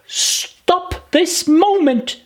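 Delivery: slow, high scolding; stern command. Acted. Alice ordering herself to stop crying, slow and stern. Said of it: "she might well say this".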